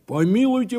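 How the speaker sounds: high, loud protest; indignant exclamation. A narrator's reading. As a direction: cry out as if scandalised. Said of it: "воскликнул дурак".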